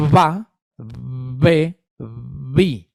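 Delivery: "ba", "be", "bi" each clearly voiced and overarticulated; voiced consonant demo. Shown as a demonstration. Therapist showing voiced consonant syllables to students, deliberately overarticulated. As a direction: sound out "ba", "be", "bi" slowly and deliberately, voicing each onset. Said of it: "con consonantes fricativas sonoras como".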